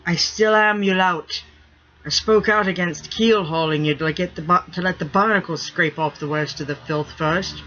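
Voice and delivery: a lightly voiced stern first mate; firm, half-amused ship's-mate order; gruff pirate mate scolding. First mate ordering the stinking rigger bathed, gruffly. Grimm answering Sniff.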